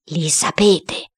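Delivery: measured, grave spirit reply. A narrator's reading. Boy as the ghost answering his niece, gravely. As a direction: answer gravely, without raising the pitch. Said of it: "risposi con voce grave".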